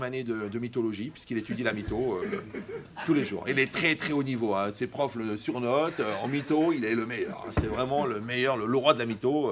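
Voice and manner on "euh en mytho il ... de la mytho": louder mock praise of the king of lies; sarcastic, growing louder. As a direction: ironic build of fake admiration.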